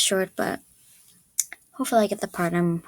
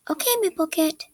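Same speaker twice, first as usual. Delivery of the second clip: higher-pitched neutral character voice; neutral audition read; 7 semitones higher than usual. Acted. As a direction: read the line evenly, pitched up a little.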